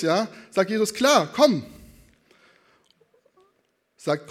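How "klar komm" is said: high, loud, upbeat agreement; loud, cheerful go-ahead; breezy calling. Acted. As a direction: call him over without hesitation. Jesus breezily answering Peter's request.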